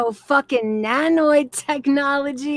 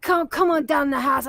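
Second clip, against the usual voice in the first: badly imitated Pittsburgh accent; attempted Pittsburgh accent. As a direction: have a clumsy go at a Pittsburgh accent. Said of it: "I can't even do the fucking accent".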